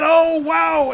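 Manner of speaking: loud, high amazed yell; thrilled ringside shout; excited shout. Real, not acted. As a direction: erupt as the crowd would. Wild spot in commentary.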